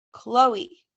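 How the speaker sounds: loud, cutting call of a name; sharp call. Acted. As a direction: snap the name to cut her off. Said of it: "Raina's voice cuts through".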